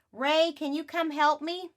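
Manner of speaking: put-on girl calling out to her brother. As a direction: call across the house for help.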